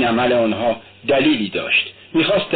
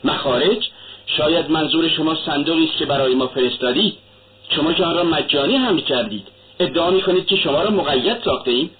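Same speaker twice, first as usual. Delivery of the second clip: vehement; 3 semitones higher than usual. Acted. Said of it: "با شدت گفت".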